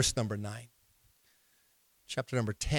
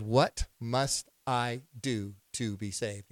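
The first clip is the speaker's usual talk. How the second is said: jailer's question; 3 semitones lower, 4 dB quieter, much slower than usual. Retold or imitated. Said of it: "he said".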